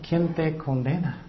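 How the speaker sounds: soft, understated tender question; gentle. Acted. Jesus to the trembling woman, soft and gentle. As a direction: ask it quietly, with mild compassion.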